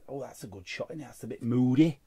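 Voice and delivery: normal talking voice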